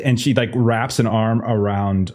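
a hint of a gushing hostess; chummy socialite. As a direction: sweetly introduce your friends. Evelyn introducing herself.

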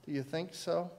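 soft gentle question; gently. Retold or imitated. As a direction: ask it softly, like a patient father. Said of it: "God is just asking you gently".

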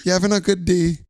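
a hint of fake overfriendly cheer; mock friendly. Retelling a grinning greeting to an angry coworker, mock sweet. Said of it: "smiling, full smile on my face".

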